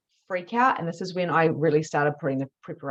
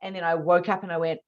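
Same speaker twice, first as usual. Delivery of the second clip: usual speaking voice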